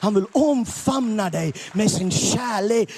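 loud, high preacher cry; preaching shout. Real, not acted. Preacher repeating God's love to the crowd, shouting. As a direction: proclaim it to the back row.

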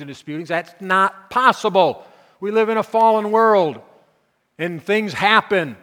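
rising from a muttered aside to a loud, high protest; mock incredulous complaint. Preacher voicing the doubter arguing with Paul, loud protest. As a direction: argue back at Paul in disbelief, building. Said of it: "maybe you're like me, it's like".

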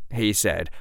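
ordinary delivery, nothing marked

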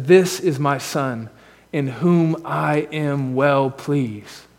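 very slow, lingering, soft words of the Father; solemn, tender quote. Retold or imitated. Pastor quoting God's love for his Son, slow and tender. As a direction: let each word fall slowly and gently.

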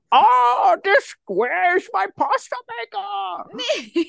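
very high, drawn-out cartoon villain wail; hammed-up mock accent, strained and slow; Bane. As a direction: wail it slowly in a silly villain voice. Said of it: "you are doing specifically Bane from that show".

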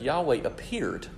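"appeared" drawn out for emphasis; slow down and lean on "appeared"; stress on APPEARED. Real, not acted. Preacher explaining Habakkuk's view of God, stressing "appeared". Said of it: "and stress that word".

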